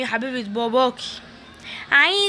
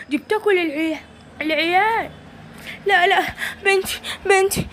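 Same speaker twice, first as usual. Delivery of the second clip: higher, anguished lament; wailing distraught mother; 4 semitones higher than usual. Acted. Mother begging viewers for her kidnapped daughter, anguished. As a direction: cry out for the lost child.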